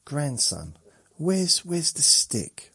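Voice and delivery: put-on high, loud, slow old-lady call; imitating nan calling. Nan calling across the house for her grandson, high and loud. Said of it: "And she said".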